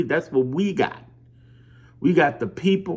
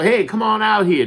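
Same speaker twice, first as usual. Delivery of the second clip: louder, higher call down the street; high, louder neighborhood call; 6 semitones higher, 4 dB louder than usual. Retold or imitated. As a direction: call people out of their houses. Calling people out door to door.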